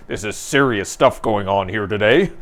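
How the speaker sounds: mock-serious newscaster voice; a hint of solemn news delivery. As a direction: play it as a grave news anchor, lightly hammed. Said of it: "full serious newscaster voice".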